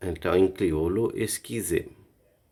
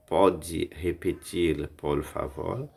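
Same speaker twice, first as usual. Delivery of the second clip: slow teaching; 2 semitones lower, slower than usual. Shown as a demonstration. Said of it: "slow teaching repetition".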